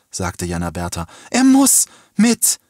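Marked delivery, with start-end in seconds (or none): 1.3-2.6 high, loud, drawn-out scream; desperate demand. A narrator's reading. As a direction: scream it slowly, each word insisted on. Girl repeats her desperate demand. (laut, hoch und gedehnt geschrien)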